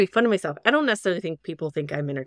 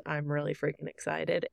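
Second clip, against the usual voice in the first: quietly saying 'freaking excited' with no energy; soft; 3 semitones lower, 6 dB quieter than usual. Shown as a demonstration. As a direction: hold the excitement back, softly. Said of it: "like, soft".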